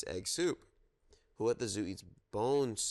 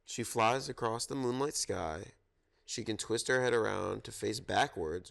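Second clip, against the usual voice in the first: storytime reading. Acted. Reads zoo picture book aloud.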